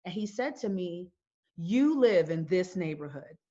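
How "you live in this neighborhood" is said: incredulous officer. Retold or imitated. Retold officer's disbelieving question.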